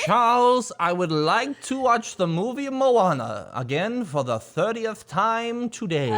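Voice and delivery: lightly voiced prim old man; old British man.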